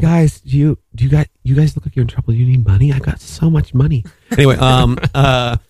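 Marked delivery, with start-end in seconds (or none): 0.0-4.0 quick, overly helpful stranger voice; mock friendly mugger. Mocking the mugger who asked friends for money, quick and sweet. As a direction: play the mugger as a hammed-up kind helper.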